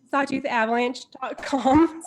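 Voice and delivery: choking on water while laughing; coughy, water caught in throat; water down the wrong throat. Real, not acted.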